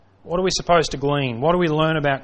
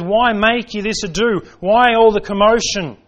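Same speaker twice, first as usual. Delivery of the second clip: rising rebuke; 4 semitones higher, 4 dB louder than usual. Acted. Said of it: "Jesus comes along and says".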